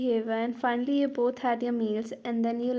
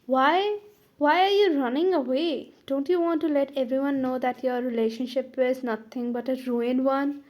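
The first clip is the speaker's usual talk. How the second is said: loud taunt; 4 dB louder than usual. Acted. Rival loudly jeers at the heroine as she leaves. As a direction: goad her into staying.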